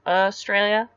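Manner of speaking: "Australia" begun with "uh" for the AU; first vowel as "uh". Shown as a demonstration. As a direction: demonstrate "Australia" as "uh-stralia". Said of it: "it's like U H".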